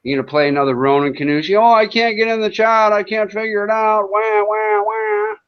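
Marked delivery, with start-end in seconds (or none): 1.6-5.4 mock whining. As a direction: sneer like a kid who can't get in. Mocking a whiny troll.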